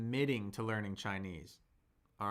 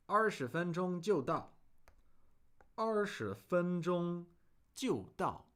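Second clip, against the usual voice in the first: reading the reply; 6 semitones higher, slower than usual. Shown as a demonstration. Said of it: "he's saying".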